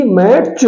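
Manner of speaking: मैच with the T sounded, "mat-ch"; wrong pronunciation. Shown as a demonstration. Teacher showing learners the mistake, wrong pronunciation. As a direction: say मैच with an audible T before the CH. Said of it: "मैच ना बोल के".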